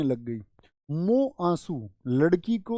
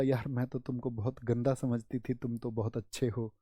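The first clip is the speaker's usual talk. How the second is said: put-on soft girlish voice; 5 semitones lower, 7 dB quieter than usual. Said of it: "उसने बोला".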